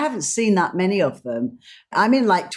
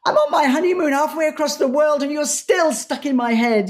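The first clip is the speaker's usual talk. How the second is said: laughing, higher put-on voice of the assistant; laughing retelling; 8 semitones higher than usual. Assistant laughs on honeymoon about her boss on TV, in a higher voice. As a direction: let laughter run through the complaint. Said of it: "And she says".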